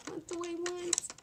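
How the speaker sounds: high sing-song, slowly drawn out. Real, not acted. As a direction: stretch the question up high and slow. Musing to herself over brushes.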